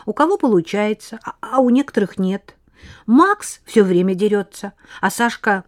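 put-on high, bright, rapid girl's chatter; chatty little girl. Lena chatters.

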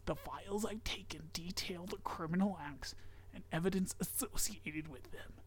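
whispered creepy story reading; whispering. Acted. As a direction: hush it like a secret.

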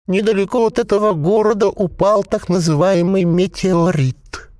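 a possessed corpse bubbling out its words; gurgling voice. A narrator's reading. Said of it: "утробно возвестил Клек".

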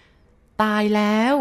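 long, drawn-out eerie call. A narrator's reading. Unseen woman insists from outside, slow drawn-out call. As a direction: stretch it out slowly, insistent. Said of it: "เสียงนั้นดังลอดเข้ามาอีกและดังกว่าเก่า".

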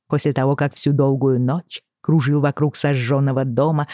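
usual speaking voice

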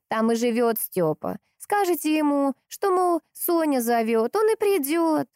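старушечий голос, выше и медленнее; old woman's voice. A narrator's reading. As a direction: talk like a chatty old village granny. Старушка объясняет полковнику.

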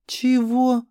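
outraged high, loud "Чего"; indignant what. A narrator's reading. Girl in the toilet outraged at being challenged. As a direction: fling it back in disbelief.

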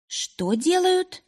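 high, slow, startled question. A narrator's reading. Polina asks back in shock. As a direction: blurt it out in disbelief. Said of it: "невольно переспросила Полина".

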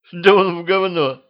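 put-on outraged at the drunk old man; indignant. A narrator's reading. Queen fumes that the old man is drunk, indignant and high. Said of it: "возмутилась она".

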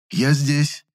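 a hint of fawning. A narrator's reading. Valentin fawning before the chemist. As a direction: wheedle like a smarmy imp. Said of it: "льстивым бесом заюлил Валентин".

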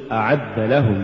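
أعد stressed as its own word, then لهم; separate words. Shown as a demonstration. Teacher repeats the correct form, أعد set apart from لهم. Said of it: "قل".

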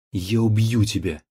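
put-on loud drunken death threat; threatening shout. A narrator's reading. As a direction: yell the threat in rage. Drunk son threatens her.

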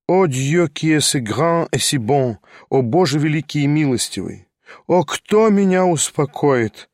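rising mild exclamation; a touch of anguished outcry; exclaimed. Acted. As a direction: cry out to heaven, slowing at the end. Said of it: "воскликнул он".

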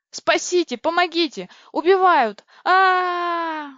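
high, loud terrified yelling; panicked screams. A narrator's reading. Girl running from a monster, panicked screaming. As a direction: scream in panic, ending in a wail.

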